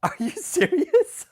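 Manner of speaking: high, slow, drawn-out "Are you serious?"; reading a cease and desist in disbelief; mock disbelief. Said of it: "I was like".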